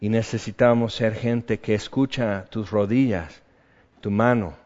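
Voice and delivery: earnest, measured prayer voice; closing prayer. Acted. Pastor leading the congregation in a calm closing prayer.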